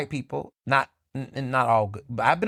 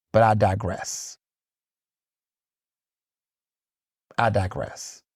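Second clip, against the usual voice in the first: mock digress; 6 semitones lower, slower than usual. Drawn-out aside after a rant.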